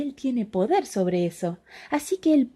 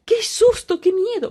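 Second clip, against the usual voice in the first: mock fright; 11 semitones higher, 3 dB louder than usual. Narrator echoes the fright.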